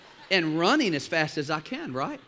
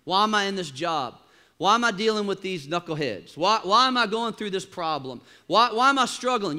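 mock complaining; 3 semitones higher, 4 dB louder than usual. Imitating complaining believer.

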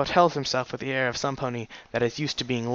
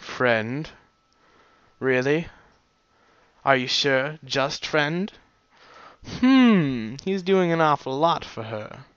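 teasing doubt; slower than usual. Real, not acted. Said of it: "teasing aside on narration".

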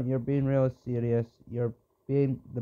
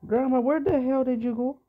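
calling out; 11 semitones higher, 4 dB louder than usual. Real, not acted. Calling out for missing Grandma.

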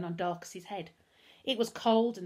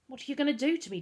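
put-on higher, nervous boy's question; 7 semitones higher, 4 dB louder, faster than usual. A narrator's reading. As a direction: ask anxiously as a tied-up captive. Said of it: "Darkus asked nervously".

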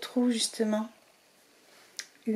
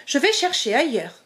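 little mouse; 2 semitones higher than usual. Acted. Zazie speaking.

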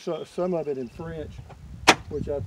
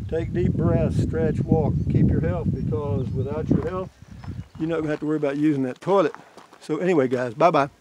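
loud hearty sign-off; 7 dB louder than usual. Real, not acted. Loud cheery sign-off to viewers.

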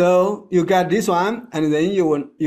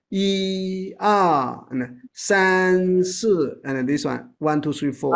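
一 strong, 二 light; 一 stressed in pairs; first of pair strong; slower than usual. Shown as a demonstration. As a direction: hit 一 and 三 harder. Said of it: "first one strong".

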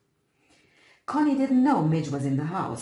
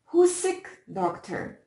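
high, loud call across the gate; 12 semitones higher, 4 dB louder, slower than usual. A narrator's reading. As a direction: call out to the passing doctor. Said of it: "she called".

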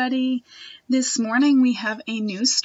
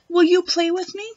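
higher, hopeful question; girl asking a snake to play, higher and hopeful; eager ask; 7 semitones higher, 6 dB louder than usual. Acted.

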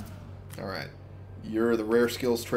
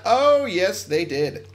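surprised; 8 semitones higher, 5 dB louder, slower than usual. Real, not acted. Enemies got close unexpectedly.

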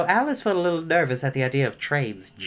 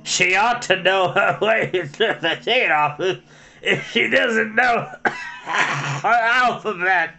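loud, higher goat bleating the words; slow, loud goat voice; 5 semitones higher, 4 dB louder, slower than usual. A narrator's reading. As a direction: bellow it like a pompous goat. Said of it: "said in a loud voice".

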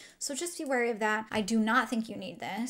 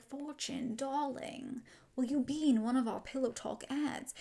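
lightly voiced, higher and softer glamour-queen impression; imitating Charlotte Tilbury; 3 semitones higher, 5 dB quieter than usual. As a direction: toy with a mock glamorous invitation. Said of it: "She does not talk like that".

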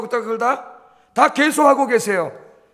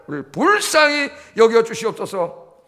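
slow earnest plea; slower than usual. Shown as a demonstration. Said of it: "그렇게 기도를 했더니".

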